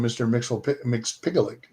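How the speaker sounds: "Mix Picklick", with a hard k inside; own pronunciation. Shown as a demonstration. Co-host offers own name for him, tentatively pronouncing "Mix Picklick". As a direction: say "Mixel, Mix Picklick", stumbling into a restart. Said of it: "I call him".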